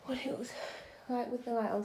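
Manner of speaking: breathless after the stairs; panting a little between words; out of breath. Real, not acted. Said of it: "Sorry, I'm out of breath".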